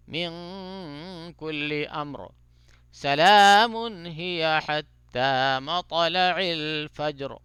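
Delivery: slow, drawn-out tajweed chanting; Quran recitation. Shown as a demonstration. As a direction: chant the verse slowly with care.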